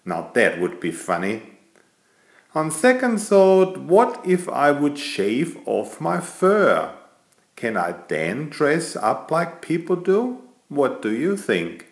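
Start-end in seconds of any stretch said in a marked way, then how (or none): 2.6-11.8 musing aloud. Acted. Cat muses aloud, high voice.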